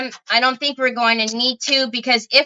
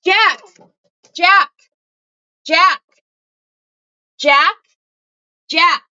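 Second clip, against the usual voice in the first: sharp, louder, repeated dog call; urgent one-word calls, higher and louder; 3 semitones higher, 4 dB louder, slower than usual. Real, not acted. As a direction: call the dog's name urgently to wake him. Alarmed, calling sleeping dog to wake.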